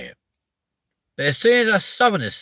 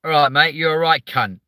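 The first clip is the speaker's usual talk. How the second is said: louder, aggressive southern English delivery; southern English accent; 2 semitones higher, 4 dB louder than usual. Retold or imitated. Streamer showing how horrible southerners sound, aggressive southern accent. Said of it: "when a southerner says it".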